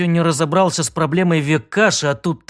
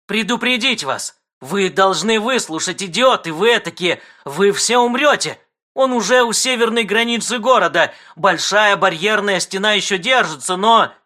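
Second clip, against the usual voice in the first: raised, frantic alarm; urgent warning; 5 semitones higher than usual. Acted. Intruder on screen warns citizens, urgent and raised. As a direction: warn them all desperately. Пират кричит предупреждение.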